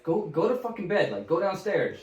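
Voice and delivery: irritated. Retold or imitated. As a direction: act out an irritated telling-off. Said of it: "he's getting fucking irritated".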